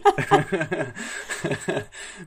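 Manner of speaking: bright burst of laughter mid-sentence; laughing. Real, not acted. Singer laughs at his own modest boast. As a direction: laugh it off while bragging a little.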